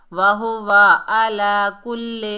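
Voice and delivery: वाहु वा आला कुल्ले loud, with o and e vowels; common wrong reading. Shown as a demonstration. Teacher imitates some learners, mistaken आला कुल्ले. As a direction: say आला with hamza, end कुल्ले on e. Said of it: "बाद लोग पढ़ते हैं".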